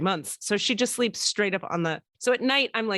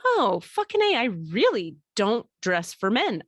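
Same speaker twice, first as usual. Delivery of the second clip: excited realization; 2 semitones higher than usual. Retold or imitated. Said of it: "I realized".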